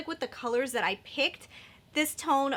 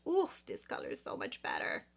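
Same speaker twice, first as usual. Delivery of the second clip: breathy hushed aside, lower and softer; awed whisper; 6 dB quieter than usual. Real, not acted. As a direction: whisper it like it's too good to say aloud. Awed aside about the shade.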